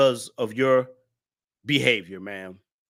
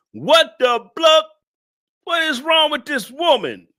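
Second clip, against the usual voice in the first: high, loud disbelieving cry; shocked high exclamation; incredulous outburst; 10 semitones higher, 4 dB louder than usual. Real, not acted. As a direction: throw up your hands in disbelief. Incredulous at viewer.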